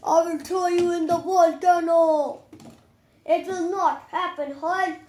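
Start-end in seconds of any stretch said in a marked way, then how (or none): 0.1-2.4 loud playful threat, pretend superhero; mock threat. Kid's Hulk threatens Iron Man, loud pretend threat. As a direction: bellow it at the toy villain, louder. Toy hero threatens the villain.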